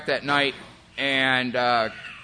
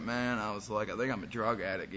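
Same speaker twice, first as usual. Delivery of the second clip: tearful confession; 5 semitones lower, 9 dB quieter than usual. Retold or imitated. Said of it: "I was crying".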